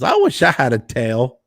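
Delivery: lightly voiced quirky celebrity wish; a hint of oddball star cadence; Christopher Walken impression. Walken replying to Jay about tails, light impression. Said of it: "And he goes".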